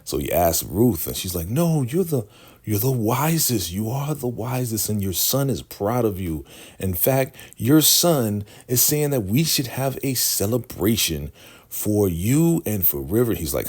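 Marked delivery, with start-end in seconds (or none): 1.5-13.3 high-pitched imitated woman's voice; mock placating flattery. Ruth soothing the Shogun, high flattering mock voice. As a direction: lift the voice high and butter him up.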